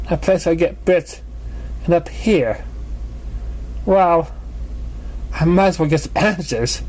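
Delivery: a dramatic diva bemoaning her fate; Trixie. Acted.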